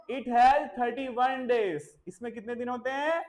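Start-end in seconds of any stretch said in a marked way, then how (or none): 0.1-1.8 very slow, every word spaced out for dictation. Shown as a demonstration. Teacher dictating to a child, very slow. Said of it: "teacher models the sentence slowly".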